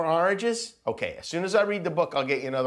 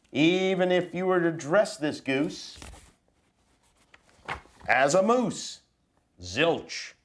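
put-on reading to children. Dad reading a picture book to his kids, mock serious. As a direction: read it solemn and serious to the kids.

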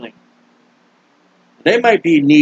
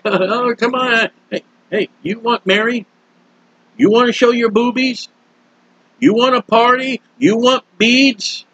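higher, mocking taunt of a storm; the storm jeering at revelers, pitched up; 4 semitones higher than usual. Storm taunting Louisiana, acted voice.

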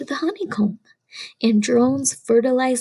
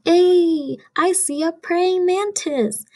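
excited discovery; 5 semitones higher, slower than usual. Acted. Showing children the hidden mantis, excited shout. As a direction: burst out with the find.

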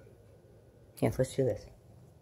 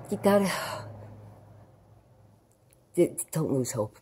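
ordinary talk

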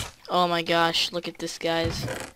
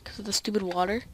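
ordinary delivery

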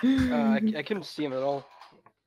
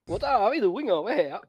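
a higher, louder put-on Finnish accent, joking; mock Finnish accent; 6 semitones higher, 7 dB louder than usual. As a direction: mimic a friend's goofy Finnish accent. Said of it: "He was trying to be Finnish".

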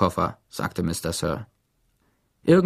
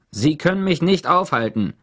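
higher, sharp retort; snapping at him; 7 semitones higher, 4 dB louder than usual. A narrator's reading. Lawyer snaps back at Mister Sir, higher sharp retort. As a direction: cut him off hard. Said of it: "fuhr sie ihn an".

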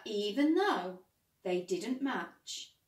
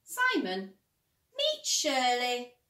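hopeful; 2 semitones higher, 5 dB louder, slower than usual. A narrator's reading. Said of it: "said Ted hopefully".

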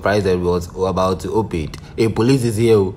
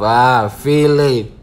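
drawn-out feeling; much slower than usual. Shown as a demonstration. Savouring feeling slowly while watching the clip. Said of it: "Hey, feeling myself".

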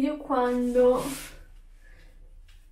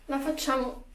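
talking through hiccups; hiccuping between words. Real, not acted. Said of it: "scusate il singhiozzo".

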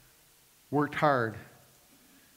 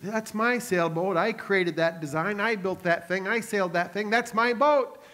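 put-on excited boy; 3 semitones higher than usual. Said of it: "he went running in there all excited".

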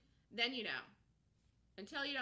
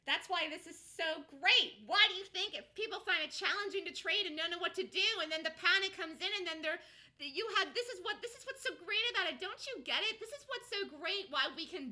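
excited; 6 semitones higher, 6 dB louder than usual. Real, not acted. Building enthusiasm about the market.

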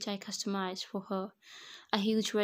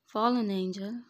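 amused echo; 6 dB louder than usual. A narrator's reading. Groom echoes the bride's name for him, amused. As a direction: repeat the name with mild amusement, no laugh. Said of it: "I chuckled and spoke".

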